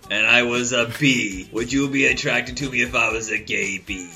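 lilting sketch voice. Retold or imitated. Host quoting the SNL sketch with a lilting voice. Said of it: "That's one of the sketches".

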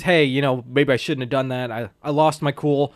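low, downcast retold apology; understated mock contrition; mildly apologetic. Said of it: "goes to Jessica's apartment and apologizes".

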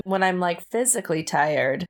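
drowsy, soothing ASMR tone. Real, not acted. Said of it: "a fun little A S M R voice".

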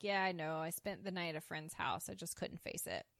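low, soft acted reply; understated sulk, voice dropped. Anthony sulking in after a night away, softly subdued. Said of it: "you know, sulking in".

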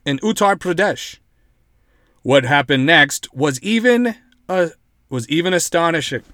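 measured mock newsreader; lightly hammed-up article reading; dramatic news read. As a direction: read it out like a shocking report. Reads article in news style.

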